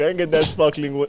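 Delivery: ordinary talk, nothing marked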